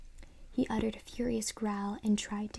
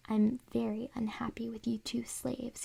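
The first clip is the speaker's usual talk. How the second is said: growly dummy voice. Acted. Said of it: "he repeated in his growly voice".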